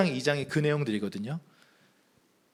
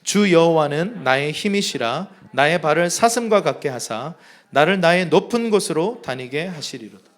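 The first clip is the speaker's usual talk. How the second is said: loud reading aloud; 4 dB louder than usual. Shown as a demonstration. Pastor leading the congregation in reading aloud. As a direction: read it out in a big voice. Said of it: "한번 큰 목소리로 읽겠습니다".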